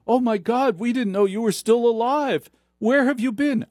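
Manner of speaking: high, breathless melodrama gasp; hammed-up arthouse drama actress; mock melodrama. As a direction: overact a shocked reunion. Acted drama scene, surprised reunion.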